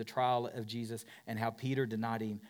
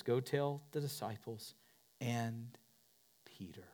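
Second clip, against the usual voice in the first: angel's words; 5 dB quieter than usual. Retold or imitated. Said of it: "The angel says".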